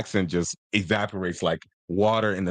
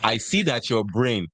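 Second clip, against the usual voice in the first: deadpan insult. Acted. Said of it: "look you dead in the eye and be like".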